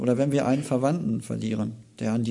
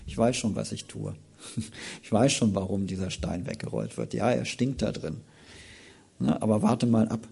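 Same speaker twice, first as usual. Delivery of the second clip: gentle God voice; 3 dB quieter than usual. Retold or imitated. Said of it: "Gott manches zu mir gesagt und sagt".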